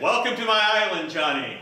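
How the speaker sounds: grand island king's welcome; booming king. Acted. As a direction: greet him like a proud king. King greets Johnny grandly.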